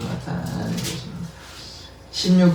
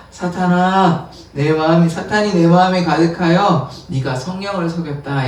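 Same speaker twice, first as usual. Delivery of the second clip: stern accusation; 3 dB louder than usual. Retold or imitated. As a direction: lean into every word. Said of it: "아나니아한테 뭐라고 얘기합니까".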